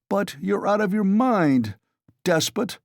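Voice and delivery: high, mock-roared accusation; a friend bellowing at the sick man; understated roar in a reading voice. A narrator's reading. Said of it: "roared Razumian".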